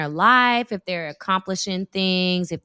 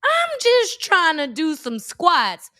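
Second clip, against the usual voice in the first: nervous retreat; 9 semitones higher, 5 dB louder than usual. Retold or imitated. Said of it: "I had to, like, run away".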